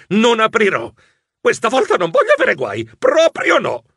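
a stubborn mouse swearing to himself; firmer vow. Acted. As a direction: insist on it, getting worked up.

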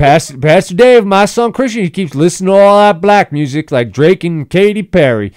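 put-on high, loud Southern country guy accent. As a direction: holler it in a rowdy Southern accent. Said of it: "like this Southern Midwest guy".

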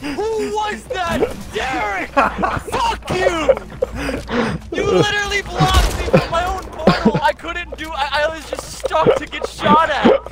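raging gamer. Real, not acted. Teammate blocked his portal.

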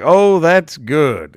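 slow, drawn-out vaudeville reaction; hammy mock approval; vaudeville patter. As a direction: stretch it out like an old stage routine. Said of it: "it's like that oldest vaudeville".

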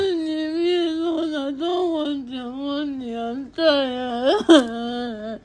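weary and sobbing; crying. Real, not acted. Girlfriend refusing the prank money in tears.

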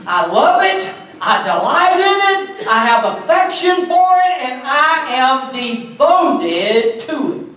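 a touch of David's fervour; fervent. Acted. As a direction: declare it with growing fervour. Voicing David's love, rising.

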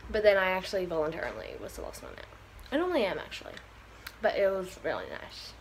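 talking around ice in the mouth. Real, not acted. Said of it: "I said that really weirdly because I have ice in my mouth".

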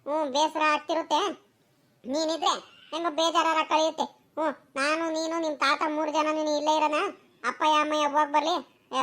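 low-toned, soothing persuasion; coaxing grandmother. Acted. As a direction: coax the child to stay behind. Grandmother coaxes child to stay. (ಮಗುವನ್ನು ಸಮಾಧಾನಿಸುವ ಅಜ್ಜಿಯ ದನಿ)

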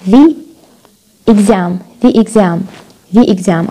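"the exam" with THE said "thee"; THE before a vowel. Shown as a demonstration. Teacher drilling the vowel example, THE as "thee". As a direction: repeat "thee exam" slowly for learners. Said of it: "بتبلش في vowel بستخدم the".

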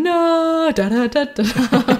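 mock Jake. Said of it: "Jake going".

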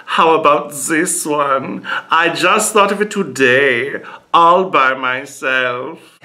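mock German farmer weighing options; deliberate German accent, trying each word on; lightly sing-song German-accented musing. German farmer tries out foreign words.

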